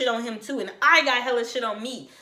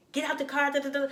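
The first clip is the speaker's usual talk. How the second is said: lightly voiced lax order, higher; half-hearted order; 5 semitones higher, faster than usual. Telling what a Pisces girl does not mean, lax mock order. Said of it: "We ain't here to say".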